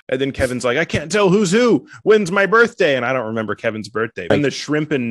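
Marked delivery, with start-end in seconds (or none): 0.8-3.0 higher-pitched mock confusion; panicked Kevin. Comedian as Kevin unsure who is who, mock panic. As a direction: blurt it in comic bewilderment.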